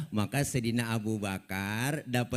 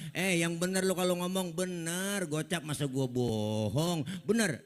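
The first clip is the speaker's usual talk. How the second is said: incredulous; 5 semitones higher than usual. Acted. Musa tak percaya.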